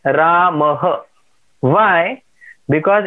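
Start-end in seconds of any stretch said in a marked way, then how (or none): 0.0-1.0 RAMAH ending in an echoed "ha"; visarga as ha. Shown as a demonstration. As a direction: say RAMAH as "raa-ma-ha". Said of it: "then we will say".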